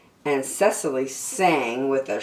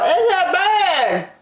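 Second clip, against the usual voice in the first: high, slow panicked yell; 14 semitones higher, 4 dB louder than usual. Acted. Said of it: "She ran home to her parents and yelled".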